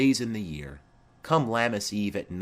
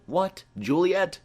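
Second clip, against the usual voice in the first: high, raised call across the house; 9 semitones higher, 4 dB louder than usual. Acted. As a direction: call her from another room. Nurse calls for Juliet.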